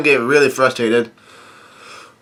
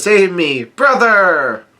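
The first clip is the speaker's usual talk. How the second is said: mock plea; 5 semitones higher, much slower than usual. Voices Brule's cry for help.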